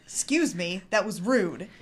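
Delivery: loud, indignant call across a room; upset in-character shout; yelling across a restaurant. Acted. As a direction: project it loudly at a rude stranger. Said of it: "I yell across the Wendy's".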